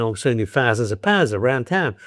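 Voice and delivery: broad Cockney with flattened "ah" in pounds, town; demonstrated Cockney accent. Shown as a demonstration. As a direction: demonstrate Cockney vowels, "pahnds" and "tahn". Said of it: "and the Cockney would spend".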